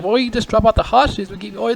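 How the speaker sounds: high put-on woman's voice, hammed up; mock woman's voice. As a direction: squeak it out like a mocked lady. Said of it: "She's like".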